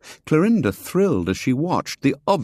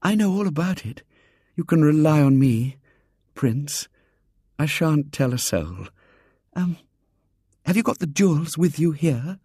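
put-on breathless admiring girl; 8 semitones higher than usual. A narrator's reading. Girl confides to Robert.

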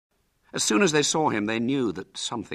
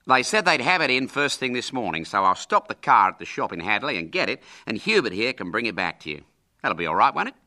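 lightly voiced brisk, hearty uncle; a touch of breezy uncle; 4 semitones higher, 4 dB louder, faster than usual. Uncle explaining to William about the knife, lightly breezy.

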